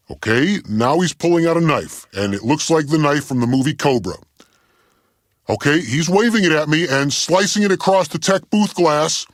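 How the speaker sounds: growing alarm. Acted. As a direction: report danger as it starts to unfold. Commentary as engineer pulls knife.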